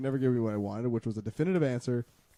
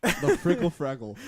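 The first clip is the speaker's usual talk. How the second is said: amused relish; 3 semitones higher, 5 dB louder, slower than usual. Real, not acted. Savoring the silly phrase.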